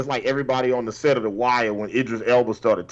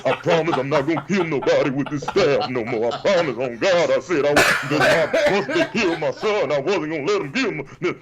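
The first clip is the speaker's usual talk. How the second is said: imitating Morgan's Southern tremble; 3 dB louder than usual. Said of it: "talking with that tremble in his voice".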